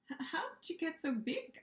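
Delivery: put-on boy stunned by the huge monster, gasping; gasped question. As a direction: gasp it out in awe and fright. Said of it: "I gasped".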